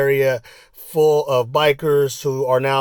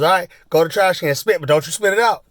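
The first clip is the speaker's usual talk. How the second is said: teasing biker; 5 semitones higher, 5 dB louder, faster than usual. Retold or imitated. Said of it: "he goes".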